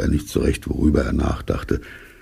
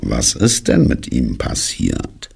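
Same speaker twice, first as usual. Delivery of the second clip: slow, low echo of the question; ponderous, dismal donkey asking back; gloomy donkey; 4 semitones lower than usual. Acted. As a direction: drag the question out glumly. Gloomy donkey echoes Pooh's question.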